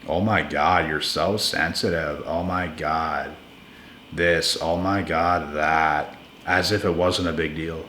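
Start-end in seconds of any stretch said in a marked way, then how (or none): 0.1-6.2 lower, softer sneering mimic of a dismissive partner; mock their eye-rolling brush-off; imitating someone who belittles you; mocking imitation. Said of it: "then they mock you for it".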